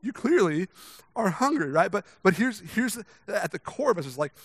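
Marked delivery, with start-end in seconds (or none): 0.0-1.7 loud, much higher, exasperated insistence; mock heated retort at the homeless man; getting angry. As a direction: argue back hotly that he is hungry. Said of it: "then I started to get angry".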